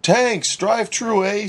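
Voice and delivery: quick, chirpy Newfoundland greeting with "Tanks" for thanks; a bright, high Newfie "Tanks, drive-thru, eh?"; cheery Newfie drive-thru greeting; Newfie accent. Acted. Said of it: "a thick Newfie accent".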